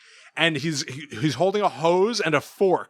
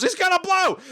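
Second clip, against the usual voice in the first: high cartoon voice. Toaster character quote retold.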